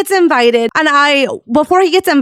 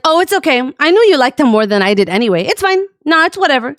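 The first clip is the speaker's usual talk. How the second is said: imitated sulky brush-off, pitched up at the edges; passive-aggressive; faster than usual. Resentful friend brushes off the streamer, mock passive-aggressive. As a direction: pretend it's fine while clearly minding. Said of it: "say some passive-aggressive stuff to me".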